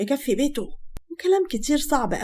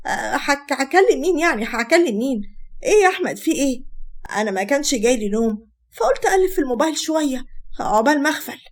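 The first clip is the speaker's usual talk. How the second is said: stumbling, slightly raised defensive nerves; nervous, afraid of exposure; 3 semitones higher than usual. Acted. Wife caught on the phone by her husband, mildly nervous. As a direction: play a touch of panic at being caught. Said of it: "غادة بتوتر وخوفة لا ينكشف أمرها".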